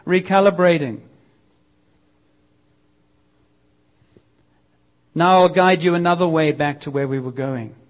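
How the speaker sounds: mildly calm, even mock machine voice; lightly unruffled, like a satnav; calm sat nav. Preacher imitates the GPS calmly rerouting the driver. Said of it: "The voice very calmly says".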